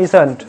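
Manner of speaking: "Isn't" as one joined word, IZ-unt; contracted pronunciation. Shown as a demonstration. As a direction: demonstrate "Isn't" with "not" shrunk to n't. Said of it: "উচ্চারণটা কেমন হয়?".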